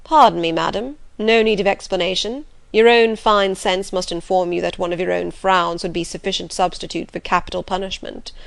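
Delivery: teasing, courtly gentleman voice; gallant gentleman. Acted. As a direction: play the gruff, flattering gentleman. Rochester voiced in reading.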